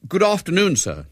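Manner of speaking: high-voiced, polite greeting. A narrator's reading. Boy greets his sister's coach at the door, polite. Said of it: "he said politely".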